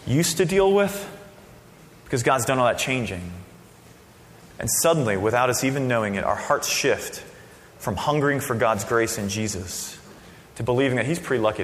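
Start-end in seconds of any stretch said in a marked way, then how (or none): none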